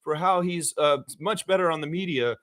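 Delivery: gently put-on proud praise; supportive reporter. Imagined reporter praising Scott on the media, mildly supportive. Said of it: "like a supportive reporter that's saying".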